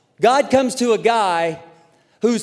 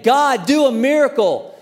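pleading prayer; 6 semitones higher, 3 dB louder than usual. Retold or imitated. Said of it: "they're praying".

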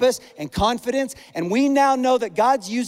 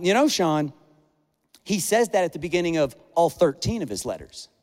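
mild imitation of a friend, slightly lowered; a gently corrective friend, lightly voiced; Ryan, nicely; 4 semitones lower than usual. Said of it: "only Ryan can do real nicely".

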